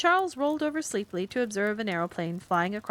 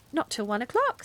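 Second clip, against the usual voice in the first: reassuring; 4 semitones higher than usual. Acted. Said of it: "said Carrie reassuringly".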